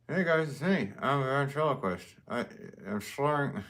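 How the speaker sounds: second go at a throwing-the-voice dummy voice; ventriloquist voice second try. Pretend. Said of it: "It's hard to do".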